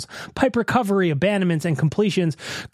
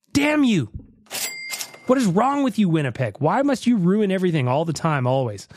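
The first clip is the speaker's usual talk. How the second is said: mock outrage; 2 semitones higher than usual. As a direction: shake your fist at the sky. Cursing the Jets.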